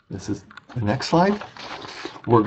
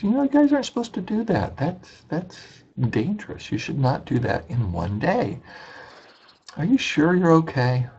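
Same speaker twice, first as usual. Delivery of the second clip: higher, faster mock scolding caretaker; concerned scolding; 7 semitones higher than usual. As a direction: warn them like a worried local. Caretaker scolding in retold story.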